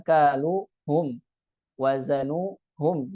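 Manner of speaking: "kalu hum" with a pause before hum; split pronoun. Shown as a demonstration. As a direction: cut "wazanu hum" in two. (dhamir dipisah, salah)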